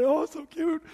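high, cooing gush over a card; hammed-up sentimental coo; mock gushing. Preacher mocks people gushing over Christmas cards, high coo. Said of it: "you weep and say".

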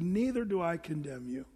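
kind, tender forgiveness, softly; gentle gleam. Shown as a demonstration. Jesus forgiving the woman, gentle and kind. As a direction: say it with a gleam in your eye. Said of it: "he had a gleam in his eye".

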